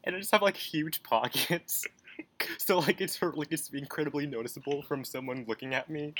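high silly voice. Pretend. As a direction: push the pitch up for the gag. Silly pocket water bit.

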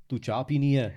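Punjabi with a Scottish twang; Scottish-accented Punjabi. Shown as a demonstration. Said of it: "add the accent of the Scottish".

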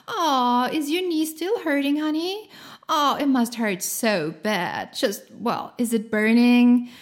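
put-on hover over the child's knee, overdoing concern; fussy overanxious parent. Overanxious parent fussing over kid.

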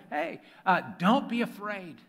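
high-pitched, casual reassurance; Jesus. Acted. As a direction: play a breezy Jesus calling to frightened friends. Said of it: "At once Jesus said to them".

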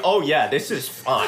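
lightly amused fake-fine delivery; mock nonchalance. Imitating the cuckolded captain telling his story, nonchalant. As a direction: act totally fine about it, half laughing. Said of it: "like it's totally fine".

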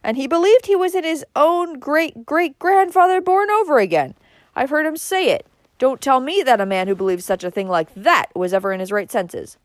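heated retort, starting loud and high. A narrator's reading. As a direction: argue vehemently against a relative. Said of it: "retorted Uncle Benjamin".

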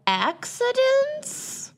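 soaring high, drawn-out title reveal; dramatic announcement. Acted. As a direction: sing the title up high and slowly.

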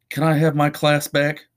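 flat, bored teacher voice; deadpan, toneless request; monotone voice. Acted. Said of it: "This voice was monotone".

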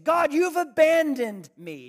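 high, loud cry of betrayal; wounded outcry. Retold or imitated. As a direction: throw the accusation up at God. Retold complaint to God.

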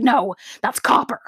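mock teacher correcting a pupil. Teacher correcting a student in lab, lightly mocked. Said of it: "And he's like".

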